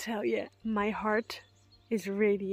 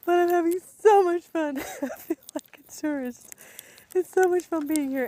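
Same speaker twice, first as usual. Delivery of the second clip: excited; 7 semitones higher, 6 dB louder than usual. Real, not acted. Gushing about her trip.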